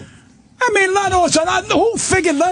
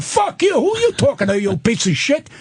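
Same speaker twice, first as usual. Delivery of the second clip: retold furious comeback. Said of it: "I said".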